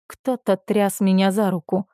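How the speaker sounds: usual speaking voice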